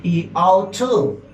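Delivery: slow, drawn-out modal verbs; slow model words. Shown as a demonstration. Teacher presenting two modal verbs slowly to the class. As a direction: stretch out each modal. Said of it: "existen dos palabras".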